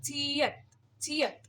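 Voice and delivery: छियत, chi-yat, with the t cut short; crisp review of छियत; letter name review. Shown as a demonstration. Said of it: "इसको बोला क्या जाता है".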